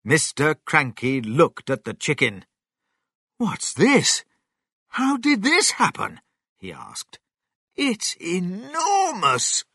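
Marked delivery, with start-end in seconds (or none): 3.4-6.2 high-pitched bewildered father; astonished questioning. A narrator's reading. Father amazed by giant chicken. 7.8-9.6 slow, high, awed exclamation; amazed. A narrator's reading. Father marvels at the chicken.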